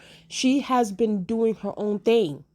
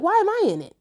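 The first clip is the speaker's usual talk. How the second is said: much higher, sassy reality-star meme voice; Nene Leakes meme voice; 11 semitones higher, 4 dB louder than usual. Retold or imitated. Rhaenyra denying the murder, in a high Nene Leakes meme voice. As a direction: play it like a diva shrugging off blame. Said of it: "In my Nene Leakes meme voice".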